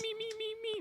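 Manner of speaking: very high, thin meeping; Beaker. Retold or imitated. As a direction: meep it out way up high. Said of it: "And that's Beaker".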